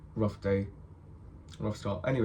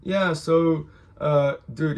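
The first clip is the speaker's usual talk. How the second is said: high friendly greeting; 6 semitones higher, 3 dB louder, slower than usual. Retold or imitated. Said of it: "We're like".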